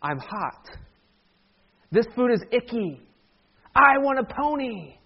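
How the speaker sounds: whiny mystery voice, drawn out at the end; put-on voice of a pampered whiner; spoiled whining child. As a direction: play a bratty little complainer, stretching the last demand. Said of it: "sounds like a voice saying".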